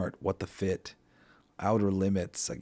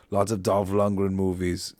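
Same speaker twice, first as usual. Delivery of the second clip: lightly put-on Austrian accent; a hint of mock Austrian accent; Arnold Schwarzenegger. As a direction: do a loose Austrian action-star accent. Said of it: "I'm doing an Arnold Schwarzenegger accent".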